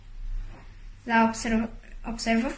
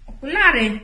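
louder, higher excited call; scorpion calling out; 3 semitones higher, 6 dB louder than usual. A narrator's reading. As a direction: shout the idea out triumphantly. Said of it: "zawołał skorpion". (głośne, podekscytowane wołanie)

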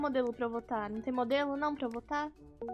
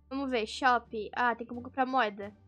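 usual speaking voice

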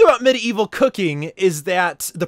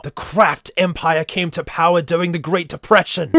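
lightly put-on empire narrator voice; mock-dictatorial reading. Host reading about the Kraft Empire, mock-ominous narrator. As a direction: read it like mild propaganda. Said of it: "makes Kraft sound like a totalitarian dictatorship".

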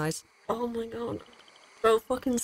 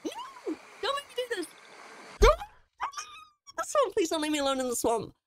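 high, hammed-up pleading, softer; mock pleading; 13 semitones higher, 3 dB quieter, faster than usual. Player begging the game not to leave him in the swamp, mock whimper. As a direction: beg like a scared child, half joking.

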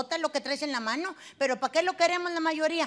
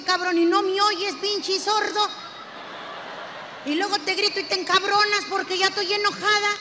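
exasperated yelling; 4 semitones higher than usual. Acted. Wife venting at her husband who never hears her, exasperated yelling. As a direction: vent at him for not listening.

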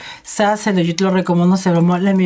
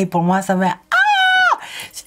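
moved, voice catching. Real, not acted. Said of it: "Pour moi, c'est ému".

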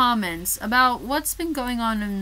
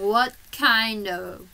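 slow, loud, disbelieving; hammed-up outrage, high and loud; indignant outrage; 6 semitones higher, 7 dB louder, slower than usual. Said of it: "I'm just sitting there going".

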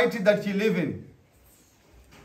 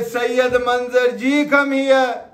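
honorific call; 3 dB louder, slower than usual. Shown as a demonstration. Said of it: "he will get even happy".

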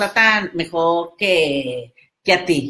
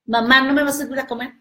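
whiny daughter; 7 semitones higher, much faster than usual. Retold or imitated. Voicing the daughter.

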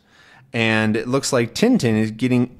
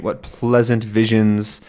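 fancy talk. Acted. Sea captain musing grandly over the sea, mildly fancy. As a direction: read it like a dreamy old sailor. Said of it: "a little bit fancy".

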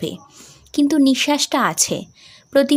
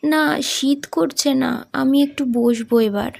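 put-on young daughter; 4 semitones higher than usual. Daughter answering her father on the train, higher. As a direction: play the young sick daughter.

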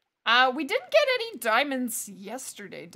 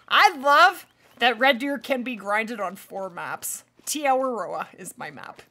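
talking around an ice cube; words slowed by ice in mouth. Real, not acted. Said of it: "Sorry, I have an ice cube".

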